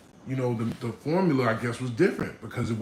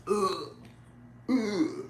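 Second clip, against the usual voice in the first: higher-pitched "ugh" of revulsion; disgusted groan; 7 semitones higher, 4 dB quieter than usual. Acted. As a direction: recoil with a queasy little groan. Acts out someone gagging at gore.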